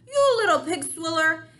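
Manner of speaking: loud, enraged insult; furious roar. Acted. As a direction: roar it at him in fury. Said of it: "roared the blood bottler".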